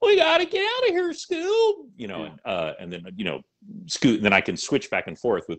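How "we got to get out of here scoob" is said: very high pitch, held-out end of line. Showing how to voice Shaggy: Shaggy voice. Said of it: "I could do a bad Shaggy".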